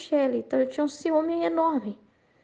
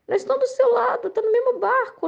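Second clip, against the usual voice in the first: retold plea; 10 semitones higher than usual. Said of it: "Eu falei".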